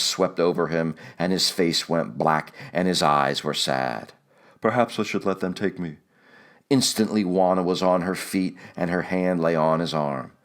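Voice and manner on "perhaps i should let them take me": defeated Kino. A narrator's reading. Kino despairing, voiced low.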